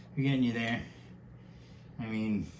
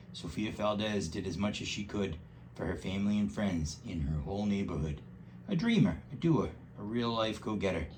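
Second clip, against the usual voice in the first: lively rhyming storybook read; reading to a child. Acted. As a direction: read it aloud with bouncy rhythm. Reads picture book aloud.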